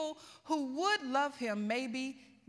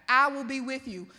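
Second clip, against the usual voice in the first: mildly voiced, louder firm promise; God's firm answer; 6 dB louder than usual. God brushing aside Moses's doubts, firm promise. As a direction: state it firmly, with added volume, as God. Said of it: "He's just like".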